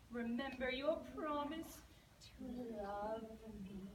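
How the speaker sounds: croaky frog. Acted. Frog pleading outside the princess's door, loud croaky sing-song. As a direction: croak and croon each plea at the door. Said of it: "a very familiar croakety voice saying".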